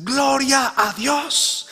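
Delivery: joyful shout. Acted. Old woman's morning praise.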